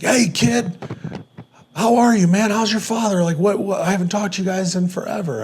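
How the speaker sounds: high-pitched, imitated hearty hello; delighted greeting. Family friend hearing from the kid after years, excited greeting. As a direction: imitate an old friend thrilled by the call.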